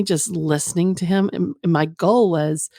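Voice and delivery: usual speaking voice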